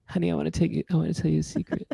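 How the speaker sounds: soft breathy pop-star whisper; a hint of a pop-star croon; a pop star. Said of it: "It's a pop star".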